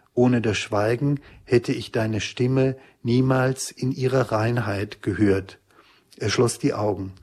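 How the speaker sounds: measured literary narration; audiobook-style reading, plainly voiced; novel reading. A narrator's reading. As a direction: read the story aloud with deliberate pauses. Reads excerpt from his novel.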